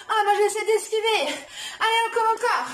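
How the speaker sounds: loud, laughing while urging on; loud laughing encouragement. Real, not acted. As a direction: cheer them on with a laugh. Coach dodging, laughing, shouting.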